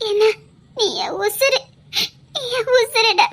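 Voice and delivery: crying through the words; tearful. Acted. Rohini tearfully telling Vikram he is her life. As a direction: voice breaking with tears.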